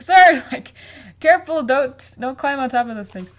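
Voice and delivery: mock-alarmed squire shouting up; worried sidekick. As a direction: call out to stop him, half-laughing. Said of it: "so he's like".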